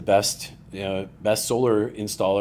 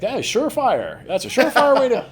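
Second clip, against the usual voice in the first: put-on hamming up a folksy old white guy, much higher; old white guy impression; 5 dB louder than usual. Mocking how old white guys pitch a name to a young founder, hammed-up old-timer voice. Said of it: "old white guys say stuff like".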